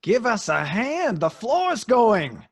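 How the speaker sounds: slow, loud, desperate pleading; desperate plea. Acted. Pete begs the old man to pull them out, desperate. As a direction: beg for rescue in panic.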